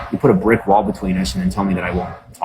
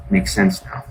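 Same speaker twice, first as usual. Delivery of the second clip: much higher sarcastic makes sense now; high realization; 12 semitones higher, slower than usual. Retold or imitated. Streamer retells realizing why people mocked her, high voice. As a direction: squeak it like a sudden penny drop. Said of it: "And I'm like".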